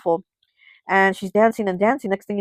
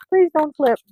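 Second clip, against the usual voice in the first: higher, drawn-out plea with a laugh; playful plea; 9 semitones higher, 4 dB louder than usual. Real, not acted. Reader begging her shuffled cards not to flip, playful plea. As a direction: plead slowly through amusement.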